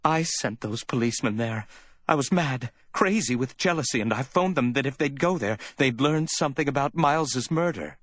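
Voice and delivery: high, wailed confession; wailing confession. A narrator's reading. Woman confessing her jealousy to Sam, wailing. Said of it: "she wailed".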